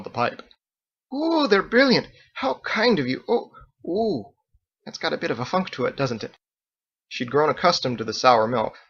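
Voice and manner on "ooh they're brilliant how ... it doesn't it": high gushing that sours into a wince; delighted then put off. A narrator's reading. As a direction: gush over the gift then catch the smell. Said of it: "Margot was delighted, until she smelled".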